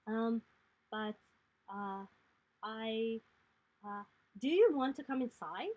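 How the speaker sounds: put-on a shy girl stumbling over her words; nervous child inviting strangers in; little girl voice. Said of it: "she turns back to you and she says".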